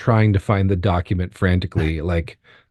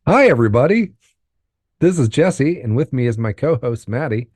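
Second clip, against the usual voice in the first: overly formal intro; 4 semitones higher than usual. Real, not acted. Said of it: "defaulted to being way overly formal".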